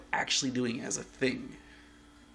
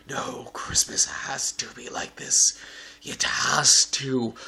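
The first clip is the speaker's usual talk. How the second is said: mock whiny demand; 9 dB louder, much slower than usual. Mocking demanding holiday people.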